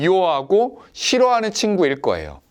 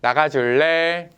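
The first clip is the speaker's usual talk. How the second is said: gentle request; slower than usual. Shown as a demonstration. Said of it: "다정하게".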